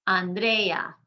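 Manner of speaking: "Andrea" in three syllables, stress on DRE; second-to-last syllable stressed. Shown as a demonstration. Teacher showing strong vowels, "Andrea" stressed on DRE. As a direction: keep E and A separate in "Andrea", leaning on E. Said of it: "emphasizing the second to last syllable".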